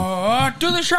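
very high strangled mock cry; hammed-up high-pitched yelp; cut-off show greeting. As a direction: squeal it as if killed mid-greeting. Acts out being cut off.

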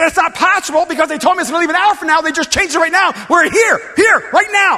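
rising to a loud, fast protest; heated protest. Retold or imitated. Frustrated traveller arguing with the airport agent, building to a shout.

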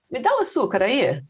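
quick offhand ask; casual Brazilian request. Shown as a demonstration. Asking at the table for sugar: quick and casual. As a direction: toss it off casually. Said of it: "That's my intonation".

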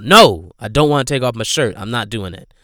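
a hint of panicked refusal; mild freak-out. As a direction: imitate her pushing back hard. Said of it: "she freaks out".

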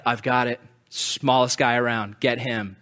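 tossing out the obvious answer; casual God. Retold or imitated. God picking David to face the giant, offhand.

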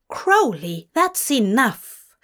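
scolding. Acted. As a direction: scold him firmly. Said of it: "Zira scolded him".

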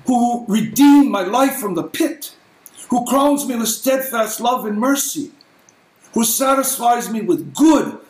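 rising, ringing psalm reading; preached scripture reading. Acted. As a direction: proclaim each line of praise. Reads psalms at full force.

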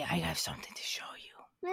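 whispered zombie lure; creepy whisper. Acted. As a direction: breathe it like a secret trap.

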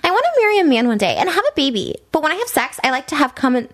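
a hint of a put-on girl voice; girl's message. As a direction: read it as the girl, pitch lifted on the opening. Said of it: "okay, this is the girl".

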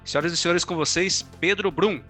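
building announcer call; announcer introduction. Acted. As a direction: present the guest like a showman. Host introduces guest like announcer.

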